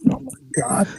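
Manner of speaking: awed, unsettled whisper; whispered mock dread. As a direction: whisper it as if he might hear. Acted dread as man grows bigger.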